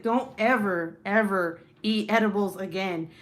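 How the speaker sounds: loud, insistent retold warning; emphatic mock warning. Wife imitating husband forbidding edibles, loud and emphatic. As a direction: lay down the law, leaning on each "ever".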